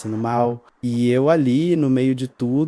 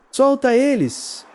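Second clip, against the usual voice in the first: much higher, slowed shout; shouted order; 12 semitones higher, 3 dB louder, slower than usual. Acted. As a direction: yell to make her let go. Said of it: "Ronaldo gritou". (Ronaldo gritando com a esposa, grito agudo)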